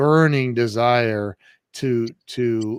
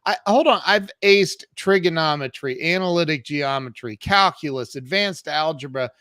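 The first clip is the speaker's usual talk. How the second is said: raised, louder indignant pushback to the school; heated retold protest; 4 semitones higher, 3 dB louder than usual. Protesting to the school that he aced math. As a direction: argue your case, rising indignation. Arguing with school about biology.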